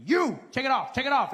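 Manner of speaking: mock security guard shouting take it off; barked order. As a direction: bark the order. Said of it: "They're like".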